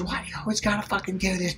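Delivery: high-pitched, exasperated mock scolding; pissed-off wife. Wife confronting Tom over his blunder, imitated as pissed off. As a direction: imitate an angry wife telling off her husband. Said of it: "she's pissed".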